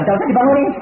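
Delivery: said loud and firm; loud retold order. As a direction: tell them firmly not to wake him. Pastor retells visit, loud. (tegas dan keras)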